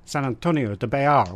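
mock French accent on San Antonio de Bayard. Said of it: "which I always do in a French accent".

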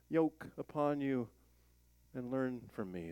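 measured, earnest Bible reading; lifting the voice on the invitation; scripture reading. Acted. Reads Matthew eleven aloud.

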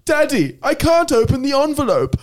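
put-on very high, childish whine; babyish whine. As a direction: play a helpless little boy crying for daddy. Acted sketch, whiny son.

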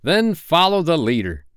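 high, merry call to follow; gaily. A narrator's reading. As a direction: cry it out gaily. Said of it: "he cried gaily".

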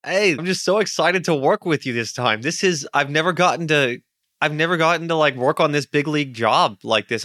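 put-on high-pitched, excitable young gang leader; shaky character voice. Eager gang leader greeting his boss on a big job, failing high character voice. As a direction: put on a high, eager underling voice that barely holds up. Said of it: "I'm failing at this voice really hard".

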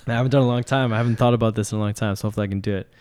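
suppressing a grin while talking; holding back a smile; trying not to smile. Real, not acted. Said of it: "I gotta stop smiling first".

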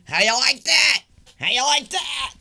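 loud taunting mock yell. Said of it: "all while yelling".

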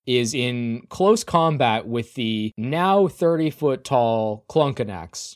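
slow, building narration; game master's scene setting. A narrator's reading. Game master describing the shaking ground, building narration. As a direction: build the scene with drawn-out key words.

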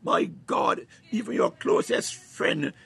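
fervent, driving sermon delivery; impassioned preacher rallying the congregation; full-force preaching. Real, not acted. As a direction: preach it with rising urgency and punched key words.

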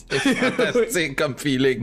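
stoned. Acted. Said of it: "je suis high sur le petit champignon".

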